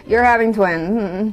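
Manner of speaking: slow, subdued delivery of worrying news; grave, drawn-out announcement; concerned. Retold or imitated. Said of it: "she looks just so concerned".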